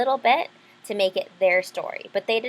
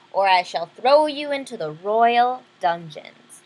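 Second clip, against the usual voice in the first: louder slow threat; threatening king; 6 dB louder, slower than usual. Acted. King threatens Isabel with the dungeon, slow and louder. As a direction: threaten her slowly like a tyrant. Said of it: "ordered the king".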